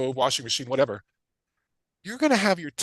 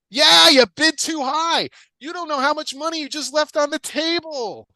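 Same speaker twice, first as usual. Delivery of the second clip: a hammed-up seller, far higher and louder; loud mock seller; 9 semitones higher, 9 dB louder than usual. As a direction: play the seller crowing that you overpaid. Voicing seller accepting too fast.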